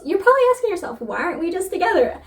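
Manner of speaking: a playful wink to the reader; narrator's voice. Retold or imitated. Narrator addressing the reader directly, knowing and playful. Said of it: "She literally goes".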